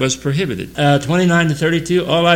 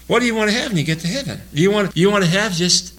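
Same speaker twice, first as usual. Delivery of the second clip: "What do you want to have when you get to heaven?" asked fast and higher; a preacher pressing the congregation with a higher, faster repeat; higher pressing question; 5 semitones higher, faster than usual. Real, not acted. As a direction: push the question up in pitch to challenge them.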